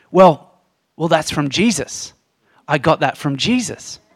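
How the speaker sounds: imitated, very quiet speaking voice. Retelling how he answered a question about helping others: imitating someone speaking very quietly. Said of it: "he said to me very quietly".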